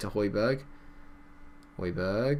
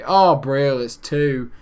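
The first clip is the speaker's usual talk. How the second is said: loud, higher burst of excitement; excited goal call; 4 semitones higher, 10 dB louder, much slower than usual. Real, not acted. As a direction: cry out as the goal goes in. Goal scored during match commentary.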